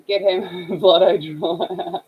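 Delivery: words broken up by a laugh. Real, not acted. Joking to viewers while working, laughing. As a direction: laugh your way through it.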